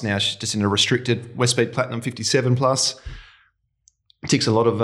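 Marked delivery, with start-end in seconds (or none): 4.3-4.8 muffled by a mouthful; chocolate egg still in mouth; mouth full. Real, not acted. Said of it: "I've got a bit of chocolate egg in my mouth".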